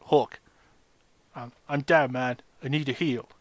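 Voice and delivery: flat robotic voice. Retold or imitated. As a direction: speak like a voice-changer robot. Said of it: "I've got this really robotic voice going".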